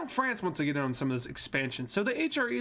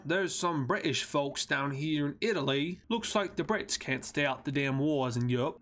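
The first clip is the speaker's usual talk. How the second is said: put-on British accent; jokey, unplaceable English accent. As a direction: slip into a vague English accent. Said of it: "what part of England that accent is from".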